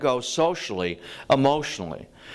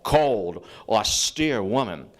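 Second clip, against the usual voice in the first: ordinary talk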